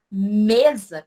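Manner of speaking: "Mesa" with a long, strong "Me" and a light "sa"; stress on first syllable. Shown as a demonstration. Teacher showing which syllable of mesa is stronger, stressed first syllable. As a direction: lean hard on the "Me" of Mesa. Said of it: "o me, ele se torna mais forte".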